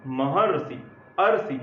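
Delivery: महर्षि said as "मह-अरसी", the अर drawn out; pronouncing the middle sound. Shown as a demonstration. Teacher to class showing how महर्षि sounds, drawn-out अर. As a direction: stretch the अर in अरसी slowly. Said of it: "जब उच्चारण करते हैं महर्षि".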